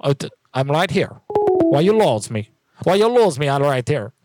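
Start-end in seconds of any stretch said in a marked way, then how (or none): 1.3-2.5 put-on slow, puzzled broken-English question in a made-up accent; mixed-up accent, slow. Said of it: "What the heck was that accent?". 2.8-3.5 put-on higher, indignant broken-English question in a made-up accent; mixed-up accent, higher. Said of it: "What the heck was that accent?".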